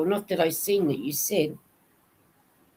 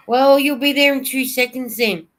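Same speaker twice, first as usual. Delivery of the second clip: excited joking; 6 semitones higher, 6 dB louder than usual. Real, not acted. Joking about a fast bus driver.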